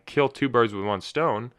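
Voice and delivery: "two" punched in a slow, deliberate saying; stress on two. Shown as a demonstration. Host quotes the classic saying, stress on "two". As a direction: lean hard on "two", spacing the words out. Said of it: "I put the emphasis on two".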